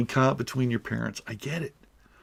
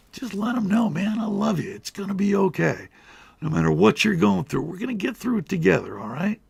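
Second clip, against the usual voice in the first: sappy reassurance; 6 semitones higher than usual. Pretend. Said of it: "I know I got a little sappy there".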